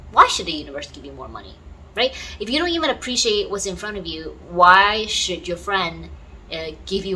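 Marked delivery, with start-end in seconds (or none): 0.1-1.6 lower, faster emphatic repeat of the question. Shown as a demonstration. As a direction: repeat it again, lower and faster, to press the point.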